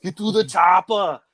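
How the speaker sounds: hammed-up movie hero impression; action-hero movie quote. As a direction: play the muscle-bound hero yelling orders. Quoting action movie line to son.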